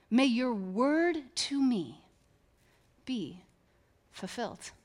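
slow, soft, reverent; hushed, savoring the phrase; savoring repeat. Shown as a demonstration. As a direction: linger on each word. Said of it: "And I love it".

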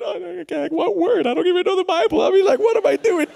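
very high, squealing panic; mock meltdown. Preacher losing his nerve before students, mock meltdown. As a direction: answer yourself in a frantic, squeaky voice. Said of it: "I'm having a meltdown".

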